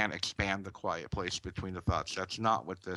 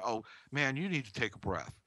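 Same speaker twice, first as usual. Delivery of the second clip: sarcastic; 5 semitones higher, faster than usual. Retold or imitated. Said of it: "they say it sarcastically".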